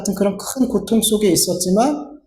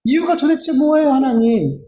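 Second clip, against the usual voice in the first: higher-pitched mock complaint; resentful questioning; 4 semitones higher than usual. Preacher imitating someone questioning God on the cross, resentful questioning. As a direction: demand an answer, mildly aggrieved. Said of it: "원망 섞인 탄식과 질문을".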